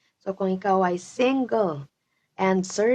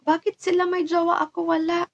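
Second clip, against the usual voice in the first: mock self-pity; 8 semitones higher, faster than usual. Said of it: "Sabihin mo".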